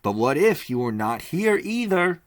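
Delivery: a resolute man declaring the plan; firm Leo. Acted. Leo Mathienne asks.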